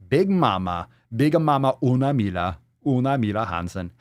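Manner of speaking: playful mock-Swedish lilt on the name; artificial Swedish accent. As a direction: roll out the name in fake Swedish. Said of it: "artificial Swedish accent or something".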